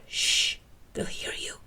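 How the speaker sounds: urgent voiceless hush; whispered. A narrator's reading. Krychek hushes Mulder at the back of the house, whispering. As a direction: hiss the warning, barely audible. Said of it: "he whispered back".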